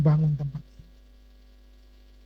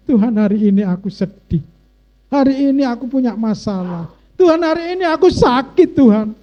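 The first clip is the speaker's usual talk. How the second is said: modelled plea, rising to a loud, high cry; honest prayer, building; 5 semitones higher, 4 dB louder than usual. Acted. Preacher models honest prayer to congregation, building plea to God. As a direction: start near normal and build to an urgent appeal. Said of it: "jujur aja".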